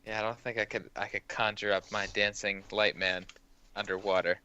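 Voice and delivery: ordinary delivery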